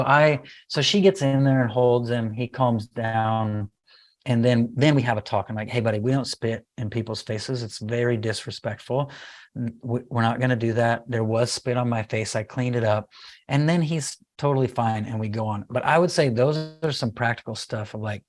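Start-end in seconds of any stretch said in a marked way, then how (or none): 5.7-13.1 softly retold gentle correction; calm parent. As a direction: explain it quietly to a small child. Calm retold talk after meltdown.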